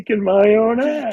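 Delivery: high, loud manic movie-quote yell; Jim Carrey shout. Retold or imitated. Quoting the bathroom self-beating scene, shouted manically. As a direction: holler it like a comic mid-beating. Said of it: "when Jim Carrey beats himself up".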